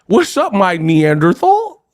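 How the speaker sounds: high hail, then a drawn-out insult; mock gangster. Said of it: "Ain't nobody saying".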